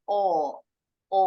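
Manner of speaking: O with the lips pushed out round; British O, lips forward. Shown as a demonstration. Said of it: "lebih monyong".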